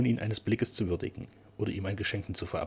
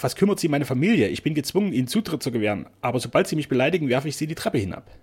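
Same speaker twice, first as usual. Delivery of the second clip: a hot, louder outburst; flaring up; 4 semitones higher, 5 dB louder than usual. Acted. Keeper flaring up at the painter, angry threat. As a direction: flare up and threaten. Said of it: "brauste Gabrion auf".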